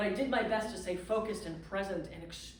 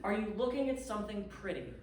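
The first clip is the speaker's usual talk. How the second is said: gentle question. Retold or imitated. Landlady calmly asking the stranded guest on the phone. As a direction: ask it kindly, with no rush.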